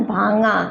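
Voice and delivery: भांगा with the ng ending in a nasal, no ग released after it; no g sound. Shown as a demonstration. Teacher shows learners भांगा said without a ग. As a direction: let भांगा end on the ng and drop the ग. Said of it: "ग का उच्चारण नहीं करना है".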